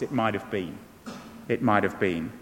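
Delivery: mournful poem recital; wistful lament. Real, not acted. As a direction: sigh out lost chances. Repeating lament quietly.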